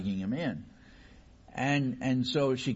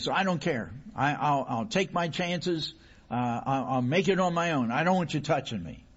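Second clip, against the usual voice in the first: stubborn anger; 3 semitones higher, 3 dB louder than usual. Acted. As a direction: brush off the doctor defiantly. Injured man refusing the doctor.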